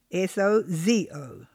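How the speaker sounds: S O Z O letter by letter; spelled out. Shown as a demonstration. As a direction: spell out S O Z O, each letter separate. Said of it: "the word is sozo".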